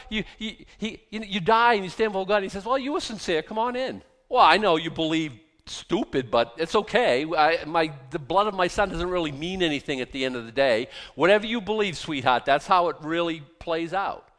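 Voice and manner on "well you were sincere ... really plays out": mock God, louder, sarcastic; sarcastic voice of God being lenient. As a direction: play God as a sarcastic pushover. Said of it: "I know I'm being a little sarcastic".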